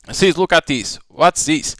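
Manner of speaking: lightly acted brother and sister bickering over pudding; voiced sibling quarrel. Brother grills his sister about the missing pudding, lightly acted heated voices.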